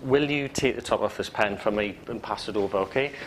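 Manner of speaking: polite request with falling, not questioning tune. Shown as a demonstration. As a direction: ask politely without lifting the ending. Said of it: "A polite request to someone".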